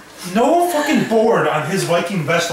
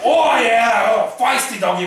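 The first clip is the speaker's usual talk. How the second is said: hearty mock Nordic-Australian accent; Nordic Australian Viking; 3 semitones higher than usual. Victor petting Godzilla, Nordic Australian Viking accent. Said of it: "like, Nordic Australian Viking".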